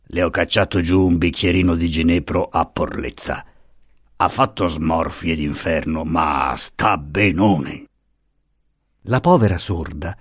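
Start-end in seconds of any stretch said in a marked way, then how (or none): 0.1-7.9 jeering husband. Acted. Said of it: "schiamazzava ghignando".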